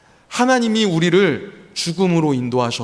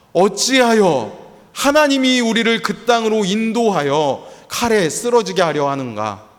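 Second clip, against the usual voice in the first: raised, slower, bitter mock complaint; a touch of the people's grievance, voiced higher; complaining people; 5 semitones higher than usual. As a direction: voice the people's accusing question. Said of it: "원망하고 있는 것입니다".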